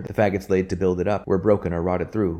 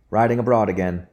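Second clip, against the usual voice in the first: a mildly raised hearty call; cried out; 3 semitones higher, 4 dB louder than usual. Acted. Minister greeting Robin in passing, a mild hearty cry. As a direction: call out a touch louder, cheerfully. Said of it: "he cried".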